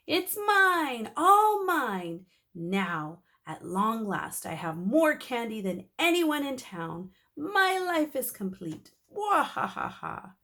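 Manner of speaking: high, loud gloating monster voice; cartoon villain gloating over candy; greedy gloating.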